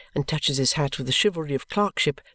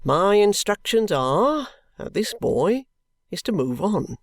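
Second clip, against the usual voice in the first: firm official voice, a touch slower; stern constable; 7 semitones higher, slower than usual. A narrator's reading. Constable lecturing the ragged boy, firm and official. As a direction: lay down the law like a Victorian policeman.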